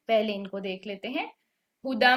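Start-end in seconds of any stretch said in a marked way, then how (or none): 1.8-2.2 tajweed reading of हुदम with ghunna; Quranic recitation demo. Shown as a demonstration. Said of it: "ये हैं इदगाम बेगुन्ना के".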